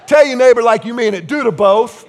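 loud, emphatic preacher's urging; rallying call. Real, not acted. Preacher telling congregation to tell neighbors, loud rallying call. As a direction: call it out to the whole room.

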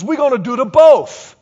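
loud, high echo of the Cajun waitress; Cajun catchphrase. Retold or imitated. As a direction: drive it home in mock Cajun. Reprises the waitress's catchphrase again.

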